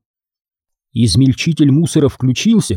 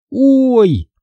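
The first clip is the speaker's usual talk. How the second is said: вскрик боли; 11 semitones higher than usual. Acted. Обожгла пальцы о Груля.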